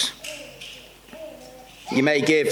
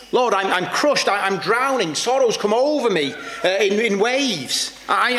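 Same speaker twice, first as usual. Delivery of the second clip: higher-pitched cry to God; pitched-up, urgent prayer of someone overwhelmed; overwhelmed plea; 4 semitones higher than usual. Acted. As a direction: plead as if going under. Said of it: "We say to God".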